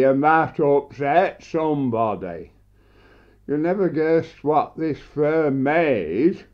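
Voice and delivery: measured, deliberate storytelling to an audience; comic monologue recital. Acted. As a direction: recite it as a deadpan wordplay tale.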